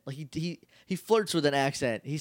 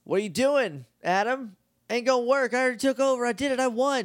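louder, higher gloating villain voice; 9 semitones higher, 3 dB louder than usual. Retold or imitated. Villain Mondo gloats over Adam, loud and high. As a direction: crow over the heroes like a cartoon villain.

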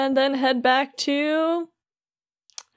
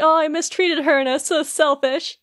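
mock-mournful, slightly raised voice; retold sadness; 5 semitones higher than usual. Beast regrets mistreating Belle, lightly acted sad lament. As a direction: lightly act out guilty regret. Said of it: "he just gets so sad".

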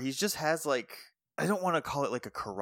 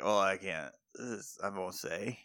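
low, trailing evasive mumble; imitated reluctant mumbling; 8 semitones lower, 7 dB quieter than usual. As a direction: mumble it softly, as if dodging the question. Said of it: "mumbling about something".

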